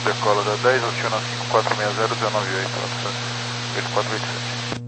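radio voice. Real, not acted. Pilot readback over ATC radio.

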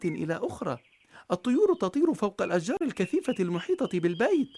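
put-on a child gasping at a lovely garden; amazed little girl. A narrator's reading. Marjana marvels at garden.

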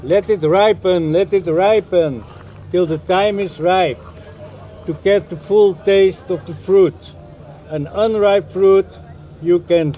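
measured lyric reading in English; spoken verse, evenly spaced phrases; poem recitation. Acted. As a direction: recite it line by line with short pauses.

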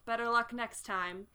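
a hint of a sighing, let-down villain; mildly theatrical regret, in character; lightly voiced disappointed butler. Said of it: "The butler sighs".

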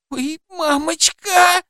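very high, slow frightened whine; girl whining from fear of the rescuer; whimpering in fear. A narrator's reading. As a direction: whimper like a scared child. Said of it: "заскулила Кира от страха".

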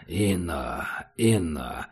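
gentle, soothing question; tender, affectionate. A narrator's reading. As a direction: speak kindly to a monster. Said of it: "спросил Убер ласково".

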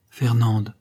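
a lightly voiced murmur from the heart; heartfelt murmur. A narrator's reading. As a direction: breathe her name tenderly. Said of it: "d'une voix qui semblait partir du fond de son cœur". (un murmure venu du fond du cœur)

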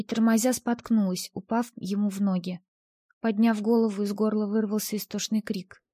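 plain reading voice

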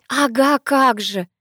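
high, loud scoff that drops away; indignant. A narrator's reading. Sister dismisses the excuse, indignant. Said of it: "возмущалась Ангелина".

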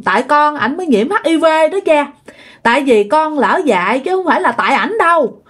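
lightly acted plea, often lifted in pitch; retold pleading. Possessed daughter begging father to stop scolding, retold pleading. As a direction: implore Dad, acting it with restraint. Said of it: "quỳ xuống mà nó nói với lại cha".

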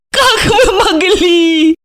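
high, loud, tearful cry; sobbing exclamation. A narrator's reading. Alexandra sobs at Gorokhov for ruining her life. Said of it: "рыдая восклицала она".

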